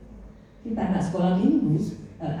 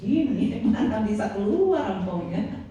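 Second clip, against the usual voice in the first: coaxing spouse; 3 semitones higher, slower than usual. Retold or imitated. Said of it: "saudara main".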